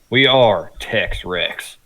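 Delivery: slow, grand declaration; slow dramatic announcement. Pretend. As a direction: proclaim it slowly, like a title. Announcing the duo's name.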